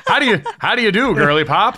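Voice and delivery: put-on fast, high old newsreel Mid-Atlantic accent; Mid-Atlantic accent like a vintage newscaster. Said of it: "old newsy sort of style".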